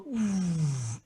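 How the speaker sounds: long breathy "ooh" sound effect; slow-motion whoosh. Retold or imitated. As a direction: imitate time slowing with a soft whoosh. Imitates everything going into slow motion.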